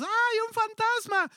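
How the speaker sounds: high, drawn-out scream of fright; terrified cry. Acted. The disciples see Jesus on the water and cry out in fright. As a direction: shriek as if you saw a ghost. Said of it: "Y estos están aterrados".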